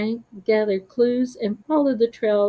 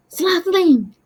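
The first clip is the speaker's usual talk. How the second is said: high, loud urgent call; urgent cry; 10 semitones higher, 8 dB louder than usual. Acted. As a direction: call out in alarm. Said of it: "his voice filled with urgency".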